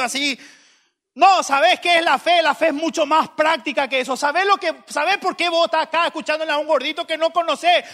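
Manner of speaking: loud, high, impassioned preaching. Real, not acted. Preacher explaining to listeners what faith is, full-force preaching. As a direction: preach at full force, driving each phrase.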